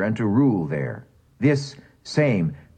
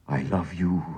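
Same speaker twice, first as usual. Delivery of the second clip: softer tender near-whisper; 5 semitones lower, 5 dB quieter than usual. A narrator's reading. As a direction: breathe it into her ear. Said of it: "he whispered in her tender ear".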